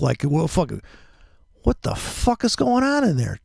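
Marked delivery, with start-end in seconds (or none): 1.6-3.4 high, exasperated outburst; pissed off. Real, not acted. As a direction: demand it in angry disbelief, voice shooting up. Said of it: "I'm so pissed off".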